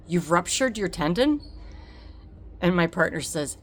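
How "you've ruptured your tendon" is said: disbelieving question rising on tendon; stunned echo. Retold or imitated. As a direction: repeat the news in shock. Echoing shocked diagnosis.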